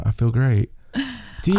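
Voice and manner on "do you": put-on British accent. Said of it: "the terrible British accent".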